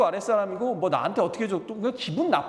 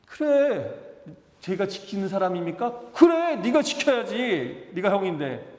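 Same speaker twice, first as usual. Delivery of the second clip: God rebuking. Retold or imitated. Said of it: "하나님 그렇게 말씀하시죠".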